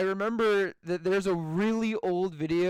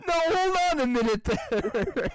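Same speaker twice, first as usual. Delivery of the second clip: higher, mock-British protest; imitated British guy; 4 semitones higher than usual. Retelling the British guy meme, mock-British objection. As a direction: put on a puzzled British voice. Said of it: "it's a British guy".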